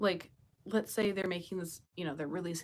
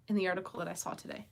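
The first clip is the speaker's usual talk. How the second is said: talking through hiccups; hiccuping mid-sentence; faster than usual. Real, not acted. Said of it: "I'm hiccuping".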